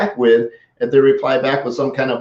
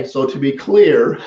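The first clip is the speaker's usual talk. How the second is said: slow "So to be clear"; slow, deliberate; slower than usual. Shown as a demonstration. Coach naming a favorite phrase, slow and relished. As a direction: savour the phrase slowly. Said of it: "that's one of my favorite".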